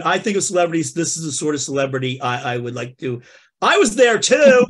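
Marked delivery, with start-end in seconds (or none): 3.6-4.7 George Santos puppet. Acted. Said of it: "George Santos".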